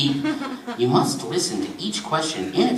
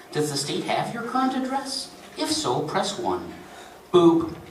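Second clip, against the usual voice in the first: lightly voiced recorded telephone system; recorded menu delivery; automated phone menu; 4 semitones higher than usual. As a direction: read it like an automated benefits hotline.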